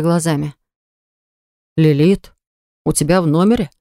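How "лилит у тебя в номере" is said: stunned. Acted. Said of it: "оторопело уставился".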